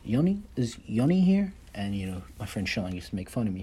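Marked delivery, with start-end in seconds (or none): 0.0-1.5 high, louder calling out a name; imitating substitute teacher. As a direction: call the roll like the old sub. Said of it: "this substitute teacher used to say".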